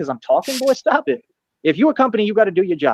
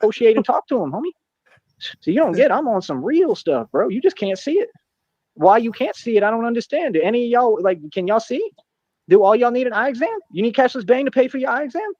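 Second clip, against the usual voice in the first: higher-pitched, put-on street accent; affected street accent; 6 semitones higher than usual. Real, not acted. Streamer telling rivals they just can't see it, affected street accent. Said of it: "affectation is this that he's going into".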